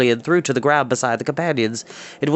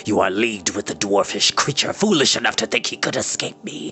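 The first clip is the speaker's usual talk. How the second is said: whispered wizard's scorn; 4 semitones lower, 3 dB quieter than usual. Acted. Wicked wizard scorning the boy in a whisper.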